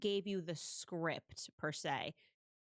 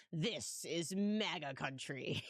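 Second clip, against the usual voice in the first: savoring quote; 3 semitones lower, slower than usual. Retold or imitated. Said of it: "I just think it is hilarious".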